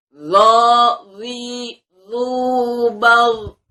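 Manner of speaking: loud, high emphatic zo syllables; makhraj drill. Shown as a demonstration. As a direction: keep every zo heavy. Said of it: "kita bunyikan huruf zo yuk".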